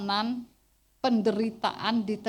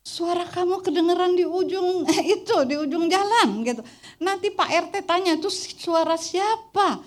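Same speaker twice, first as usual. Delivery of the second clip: laughing; 8 semitones higher, 6 dB louder than usual. Retold or imitated. Quoting husband about her loud voice.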